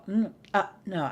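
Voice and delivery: usual speaking voice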